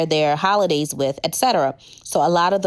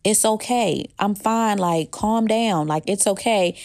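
calming mom; 3 semitones higher than usual. Retold or imitated. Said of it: "trying to keep my mother calm".

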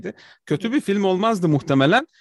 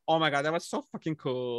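laughing fan quote; 3 semitones lower, 4 dB quieter than usual. Retold or imitated. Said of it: "Şu nasıldı?".

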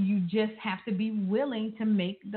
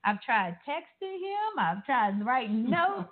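higher-pitched, mildly puzzled and fed up; wondering wife; 3 semitones higher than usual. Acted. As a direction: voice a wife's mounting puzzlement. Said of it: "then she's wondering".

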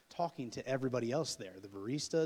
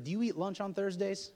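higher and louder, blurting it out; blurted question; 8 semitones higher, 5 dB louder than usual. Retold or imitated. Young man to barista, blurted high loud question. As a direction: fire off the awkward question. Acting his blunt invitation.

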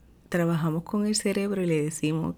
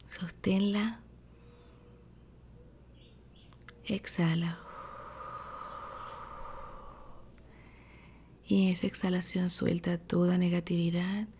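sleep story narrator; 3 dB quieter than usual. Acted. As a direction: ease them into calm breathing. Leads a breathing meditation.

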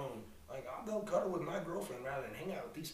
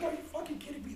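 mock disbelief; 13 semitones higher, faster than usual. Retold outrage at a dance partner.

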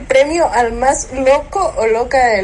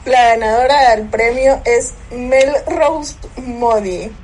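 hyped award announcement. Acted. Winner announcement after wanting drumroll.

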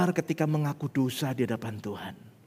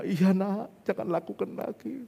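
imitated weepy reply, pitched up; mock tearful father; 5 semitones higher, slower than usual. Father hugging his son and forgiving him, mock-tearful. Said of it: "nangis juga".

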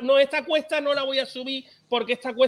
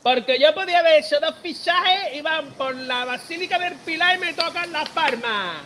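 mock proud Zaragoza director, higher and slow; imitating Zaragoza director; 6 semitones higher, slower than usual. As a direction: ham up a boastful club director. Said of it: "Tú imagínate el, el de este del Zaragoza diciendo". (imitando al director del Zaragoza, más agudo y lento)

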